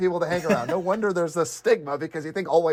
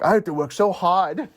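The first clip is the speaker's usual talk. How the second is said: mock whiny Asian dude; 7 semitones higher than usual. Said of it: "He's like".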